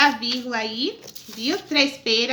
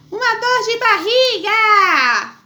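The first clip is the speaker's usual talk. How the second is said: loud, slow dramatic exclamation; exclaiming; 6 semitones higher, 6 dB louder, much slower than usual. Shown as a demonstration. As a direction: cry it out with big feeling. Reading exclamation with feeling.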